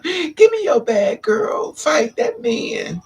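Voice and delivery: put-on high, slow, shrieked girlish cry; screaming effeminate man. Boyfriend shrieks at her to fight the man, high girlish shriek. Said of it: "he over there screaming".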